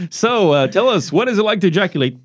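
high, giggling mock interview voice; laughing mock interviewer. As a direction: play a giggling talk-show host.

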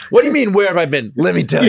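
chicken storyteller. Pretend. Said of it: "What did the chicken tell his chicken buddies?".

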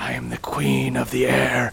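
low, grand proclamation; regal queen voice. Acted. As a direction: declare your title like a goddess. Queen proclaims her title.

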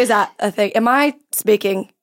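unsure mock Australian questioning; Australian accent. Shown as a demonstration. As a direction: fumble along in an attempted Australian accent. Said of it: "if you're just being Australian".

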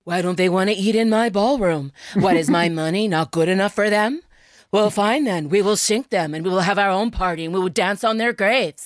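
lightly voiced rich matriarch; indignant new-money matriarch. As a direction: vow revenge over a snub. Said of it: "You did it".

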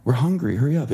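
put-on hungry child begging dad to hurry; whiny kid. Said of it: "I'd be like".

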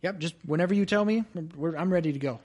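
talking while chewing; mouth full. Acted. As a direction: speak through a mouthful. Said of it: "talking with his mouth full".

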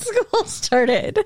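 high, whiny lament; mock-sad whine. Complaining that school has started, mock-sad whine. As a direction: wail it like a put-out kid. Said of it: "it makes me sad".

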